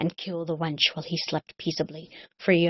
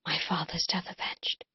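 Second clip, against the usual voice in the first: whisper; 6 dB quieter than usual. Acted. Whispered ending.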